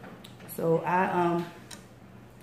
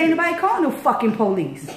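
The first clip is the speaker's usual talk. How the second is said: angry yell; 6 semitones higher, 4 dB louder than usual. Retold or imitated. Street argument shouting back.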